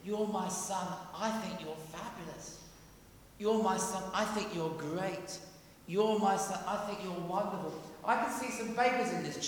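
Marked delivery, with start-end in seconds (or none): 0.1-7.7 softer, intimate words of fatherly pride; tender father's voice. Acted. The Father reassuring Jesus, soft and tender. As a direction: tell him gently how proud you are. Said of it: "the voice says".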